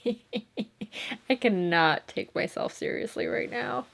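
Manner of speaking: slow words through real laughter; real giggles breaking through; laughing. Real, not acted. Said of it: "I just keep laughing".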